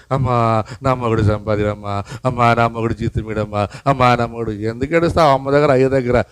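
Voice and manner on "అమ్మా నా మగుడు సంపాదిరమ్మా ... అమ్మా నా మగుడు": a lightly whined plea to mother; mocking whiny caller. Preacher imitates wives phoning mothers, mild mock whine. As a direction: imitate a wife moaning on the phone. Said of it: "ఊరికే ఫోన్లు చేసి".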